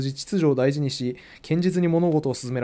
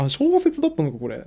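surprised realization. Real, not acted. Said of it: "予想外だな".

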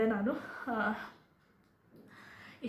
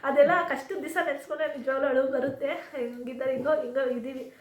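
real tearful crying; 3 semitones higher, 4 dB louder than usual. Real, not acted. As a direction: voice cracking into tears, higher and louder. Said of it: "ಇವಳು ಮಾತು ಎತ್ತಿದ್ರೆ ಅಳು ಬಂದ್ಬಿಡುತ್ತೆ". (ಕಣ್ಣೀರಿನ ಅಳುವ ಧ್ವನಿ)

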